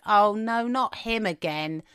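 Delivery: slow, drawn-out imitation of fed-up children; children's weary complaint. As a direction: drag out the complaint like bored kids. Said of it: "they genuinely said".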